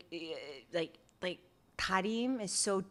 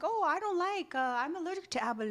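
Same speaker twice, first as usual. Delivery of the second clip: mocking him; 8 semitones higher, 3 dB quieter, faster than usual. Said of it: "he was like".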